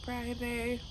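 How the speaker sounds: talking with a retainer in; words slurred round a retainer; wearing a retainer. Real, not acted. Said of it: "Sorry if I sound a little weird. I've got my retainers in still".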